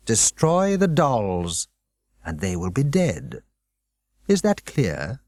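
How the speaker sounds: a hint of a calm, menacing headmaster; lightly voiced, controlled threat; cold headmaster. Headmaster calmly warning Dinah, lightly voiced menace.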